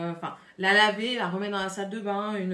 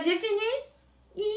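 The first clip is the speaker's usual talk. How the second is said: laughing; 12 semitones higher, much slower than usual. Real, not acted. Giggly sign-off.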